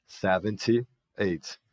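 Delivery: very slow and deliberate; nineteen seventy-eight said piece by piece, slowly; drawn-out year; slow model. Shown as a demonstration. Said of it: "mil novecentos e setenta e oito".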